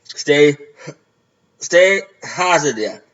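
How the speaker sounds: slurred with saliva; talking through a mouth guard. Real, not acted. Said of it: "it's saliva coming right now".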